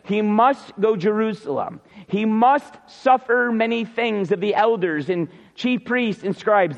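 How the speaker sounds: emphatic reading that leans on MUST. Shown as a demonstration. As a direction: stress each MUST as it comes. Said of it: "It goes like this".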